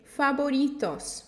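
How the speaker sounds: Favoritos slow, with b in place of v. Shown as a demonstration. Teacher showing learners v said like b. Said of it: "a letra V tem som de B".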